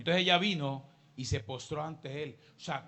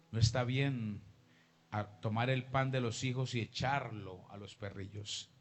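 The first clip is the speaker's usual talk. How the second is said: firm rebuke; 4 semitones lower than usual. Acted. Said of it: "Jesús la trata fuerte".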